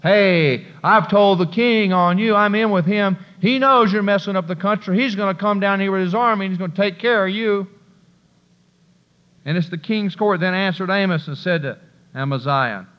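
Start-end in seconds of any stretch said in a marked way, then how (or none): 0.0-10.4 threatening priest. Acted. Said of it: "Also Amaziah said".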